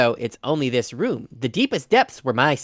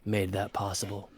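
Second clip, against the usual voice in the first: noir detective; 2 semitones lower than usual. Acted. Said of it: "Noir detective narration".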